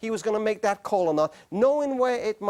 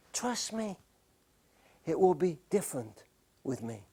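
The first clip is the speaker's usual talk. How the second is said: soft, hushed, coaxing voice; seductive whisper; 4 semitones lower, 7 dB quieter than usual. Acted. Preacher voicing the affair's seductive whisper to the congregation, hushed. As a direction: lure the listener in with a hush. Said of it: "The affair whispers to us".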